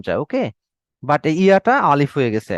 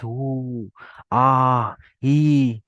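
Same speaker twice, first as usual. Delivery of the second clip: mild sick moaning; 4 semitones lower, much slower than usual. Retold or imitated. Teacher imitating a feverish person's mild moans. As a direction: groan like someone with a fever, understated. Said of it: "যেমন ধরেন কারো জ্বর আসছে".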